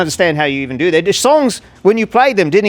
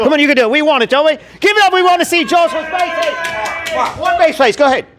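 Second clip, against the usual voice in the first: much higher, pumping up the crowd; hype-man urging; 10 semitones higher than usual. Acted. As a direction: egg everyone on like a hype man. Hyping crowd for bass face.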